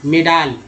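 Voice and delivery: मेडाल with a long open "aa" in the last syllable; wrong vowel demo. Shown as a demonstration. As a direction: stretch the end of मेडाल to "may-daal". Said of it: "ए को आप पढ़ते हैं".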